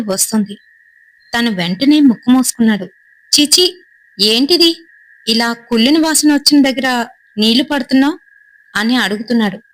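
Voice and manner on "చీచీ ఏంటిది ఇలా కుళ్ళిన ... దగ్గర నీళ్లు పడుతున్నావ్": higher-pitched mild disgust. Acted. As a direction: recoil from a foul smell, voice raised. Disgusted at a rotten smell.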